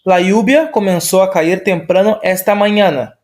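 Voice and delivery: Spanish example sentence, clearly read. Shown as a demonstration. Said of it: "mais uma outra frase contextualizada".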